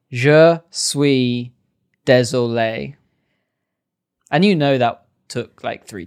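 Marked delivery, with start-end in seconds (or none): 0.1-3.0 mock Tom Cruise French. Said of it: "he's just like".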